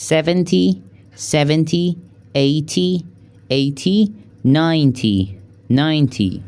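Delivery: tens said twice each, clear teacher model; number drill. Shown as a demonstration. Teacher drilling thirty to ninety for the class. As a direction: repeat every ten for learners. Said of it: "از سی تا نود".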